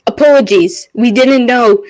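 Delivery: lightly yelled, stumbling apology; mild in-character yell. Acted. Adventurer apologizing to the ghosts, mildly yelled out. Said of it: "and I just yell out".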